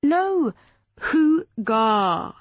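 "hooga" said firmly with a hard k sound, falling; correcting pronunciation. Acted. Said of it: "Clara pronounced it again for them slowly".

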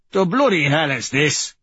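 indignant disbelief. Acted. Uncle walks in on ritual.

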